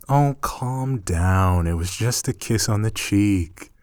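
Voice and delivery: high, giggling, playfully pleased with herself; giggly teasing. Acted. After stealing a kiss on the cheek, giggling and teasing. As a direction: tease them through rising giggles.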